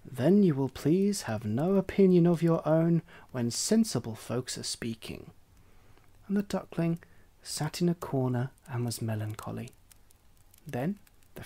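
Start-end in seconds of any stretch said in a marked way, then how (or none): 0.1-5.3 haughty hen voice. Acted. Hen lectures duckling.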